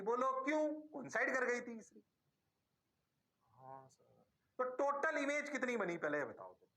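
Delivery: ordinary talk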